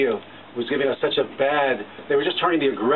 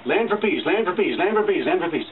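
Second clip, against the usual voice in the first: mocking repetition; 4 semitones higher than usual. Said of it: "you hear that again and again".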